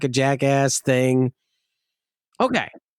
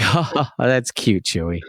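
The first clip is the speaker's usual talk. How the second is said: sarcastic. Retold or imitated. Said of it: "Joke's on you".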